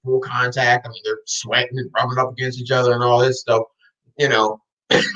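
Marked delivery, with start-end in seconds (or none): 4.2-5.0 coughing after water went down wrong. Real, not acted. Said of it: "my water went down the wrong".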